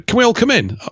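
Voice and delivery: very high, sing-song mock asking; mock polite request. Mimicking migrants politely asking to come in, in a high sing-song voice. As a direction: ham up a timid polite plea. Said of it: "they just started writing to them".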